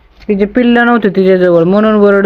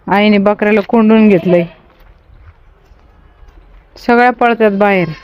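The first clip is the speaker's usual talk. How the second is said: ordinary talk, nothing marked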